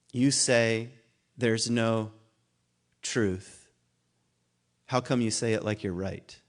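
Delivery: slow and halting, long pauses between the words as if recalling them; halting recalled lyric. Shown as a demonstration. Lecturer recalling a song lyric for the class, slow and halting. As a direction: feel for the line word by word. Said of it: "I have to think of the line".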